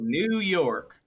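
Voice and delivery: "New York" drawn out slowly; Southern pronunciation. Shown as a demonstration. Comparing Yankee and Southern speech, "New York" said slowly. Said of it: "which is a Southern way".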